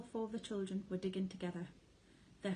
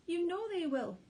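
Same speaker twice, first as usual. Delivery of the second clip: sobbing; 10 semitones higher, 6 dB louder than usual. A narrator's reading. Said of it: "sobbed Missus Fox".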